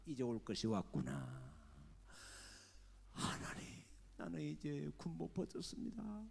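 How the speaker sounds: high, loud wailing cries to God; crying prayer. Retold or imitated. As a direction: sob and shout your injustice. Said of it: "하고 엉엉 울면서".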